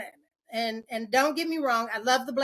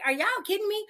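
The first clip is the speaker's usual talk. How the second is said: much higher, incredulous; disbelief; 9 semitones higher, much faster than usual. Retold or imitated. Speaker reacting to being told crying means sad, high disbelief. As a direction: toss it up in mock disbelief. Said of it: "I was like".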